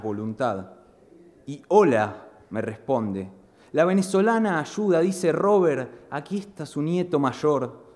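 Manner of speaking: expressive spoken-word delivery; dramatic poem recital. Acted. Poet performing his poem about his blind grandfather, dramatic recital. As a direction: perform the verse, voicing the family scene.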